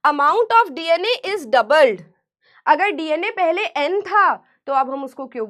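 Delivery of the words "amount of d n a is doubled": every word drawn out slowly for notes; slower dictation. Shown as a demonstration. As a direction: repeat it slowly so they can write. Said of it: "repeated slower for notes". (धीरे-धीरे दोहराकर लिखवाना)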